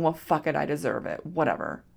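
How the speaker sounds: low, soft, defeated shrug; resigned. Retold or imitated. Pouring wine to herself, a resigned low voice. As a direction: sag into giving up. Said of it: "Feel that emotion".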